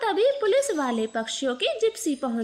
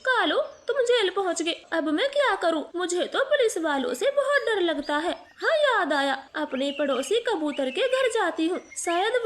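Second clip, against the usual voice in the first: higher, anxious voice, a touch of panic; frightened wife; 5 semitones higher than usual. Acted. Gori learns Kalu is jailed, frightened and higher-pitched. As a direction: fret aloud as if the police might come next. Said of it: "वो भी बहुत डर गई थी".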